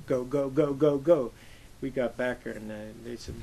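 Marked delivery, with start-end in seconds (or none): 0.1-1.3 urgent yelling. Retold or imitated. Urging boat crew to hurry.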